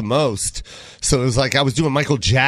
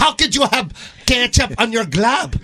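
mock yelling mom; 7 semitones higher than usual. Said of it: "yelling at me".

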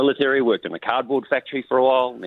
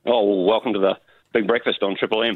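radio voice. Shown as a demonstration. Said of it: "your best radio voice".

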